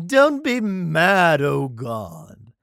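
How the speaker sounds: high, very slow, loud mock whine; mock pleading. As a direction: beg God like a sulky child. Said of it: "being like".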